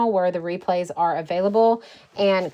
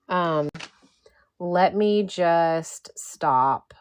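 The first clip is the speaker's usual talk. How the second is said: slow whisper to herself; 3 semitones lower, 3 dB quieter, much slower than usual. Real, not acted. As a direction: whisper it while fixing something. Troubleshooting a freezing stream.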